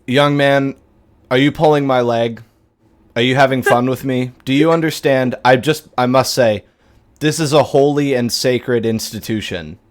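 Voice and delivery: lightly voiced stern priest addressing a mocker; indignant priest. Priest to young man in confessional, indignant. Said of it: "and he says".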